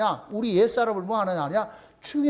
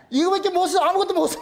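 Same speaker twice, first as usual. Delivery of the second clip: higher voice breaking into real laughter; laughing while talking; 6 semitones higher than usual. Real, not acted. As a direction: chuckle through the words. Laughs at own phone example. (웃음 섞인 높은 목소리로)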